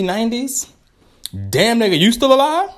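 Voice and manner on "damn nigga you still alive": high, loud put-on voice of a shocked friend; mock surprised friend. Vlogger voicing a friend at a hundredth birthday, high shocked. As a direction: squeal it like a friend stunned you're still alive.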